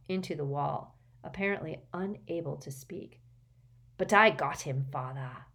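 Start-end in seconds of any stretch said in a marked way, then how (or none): 4.0-5.5 crackled. Acted. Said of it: "crackled Morphin".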